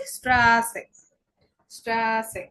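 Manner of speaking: "স্ট্রাসে" with long "আ" and sharp s; eszett as sharp s. Shown as a demonstration. Teacher giving an eszett example, sharp s sound. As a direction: draw out "স্ট্রা", then a clear "সে". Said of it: "ছয়ের মতো".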